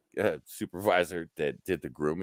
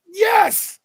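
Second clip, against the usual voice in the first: high, loud whoop of joy; excited yes; 10 dB louder than usual. Retold or imitated. Supervisor cheering at finally hiring two workers, a high loud whoop. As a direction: cheer it out with delight. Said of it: "I was all excited".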